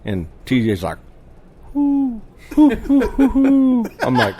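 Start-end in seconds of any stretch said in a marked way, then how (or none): 1.7-3.8 imitating a buddy's lame owl call, high and laughing; a clumsy, giggly hoo hoo that fails; bad owl hoot. Retelling how his buddy botched the owl call, mock bad hoot. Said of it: "Dude, that really sucked".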